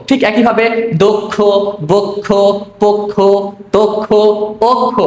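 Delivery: দক্ষ বক্ষ পক্ষ তক্ষ অক্ষ each with o, slowly; standard pronunciation list. Shown as a demonstration. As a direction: list each word carefully. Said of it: "এগুলো আমাদের প্রমিত উচ্চারণ". (প্রমিত উচ্চারণে শব্দের তালিকা)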